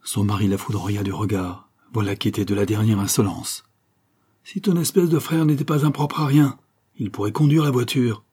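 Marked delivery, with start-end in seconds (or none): 4.4-8.2 hissed insult. A narrator's reading. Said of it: "siffla-t-il".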